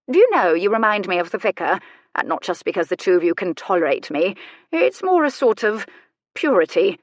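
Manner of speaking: lightly voiced dowager, thinking aloud; a hint of an arch aristocrat appraising a visitor; musing old lady.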